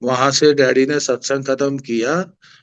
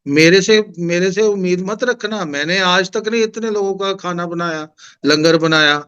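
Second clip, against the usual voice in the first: raised voice; 4 semitones higher than usual. Retold or imitated. To Bambi aunty on the phone, refusing the langar job, raised voice. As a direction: push the voice up a notch, pleading you can't do it. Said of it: "थोड़ी ऊंची आवाज में बोल रहा हूँ".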